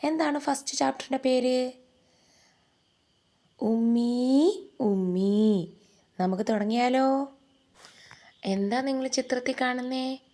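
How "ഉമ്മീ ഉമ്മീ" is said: plaintive calling of a lost lamb, rising then falling; lamb crying for mother. Acted. Lost lamb calls out for its mother, plaintive. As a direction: call for mummy like a lost little lamb.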